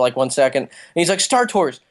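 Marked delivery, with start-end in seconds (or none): 1.2-1.8 higher-pitched attempt at a slipping British accent; light impression of an actor's imperfectly hidden British accent; imitating John Boyega. Retelling a ride cameo to podcast friends, lightly attempted British accent. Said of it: "his accent, 'cause he's British".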